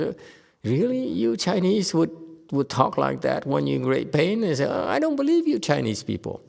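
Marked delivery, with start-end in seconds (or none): 0.6-4.4 high, doubting 'really?'; incredulous American. Retold or imitated. Teacher mocking an American listener, incredulous. 4.7-6.4 much higher, amused incredulity; mock disbelief. Teacher imitating Americans scoffing at Chinese stories, high mock disbelief.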